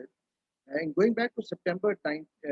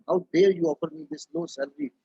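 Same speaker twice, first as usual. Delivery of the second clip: higher-pitched, indignant mock shout; retold angry shout; 5 semitones higher, 4 dB louder than usual. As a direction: imitate an outraged man protesting his offer. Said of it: "he shouted at her and he said".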